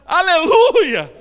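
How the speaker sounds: high, loud, drawn-out holler; long belted reply across a distance; shout from upstairs. Retold or imitated. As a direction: call down to someone far below. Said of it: "Aí o cara lá disse".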